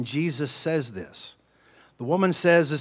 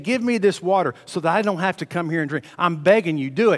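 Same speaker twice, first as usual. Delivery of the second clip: raised, louder begging plea; higher, louder begging woman; pleading; 5 semitones higher, 5 dB louder than usual. Acted. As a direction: lift the voice and beg. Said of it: "hear her pleading with him".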